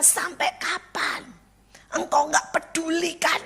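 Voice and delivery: high, slow mock lament; imitated crying prayer. Friend complaining to God, imitated tearful plea. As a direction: plead upward as if in tears. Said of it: "saya baru nangis sama Tuhan".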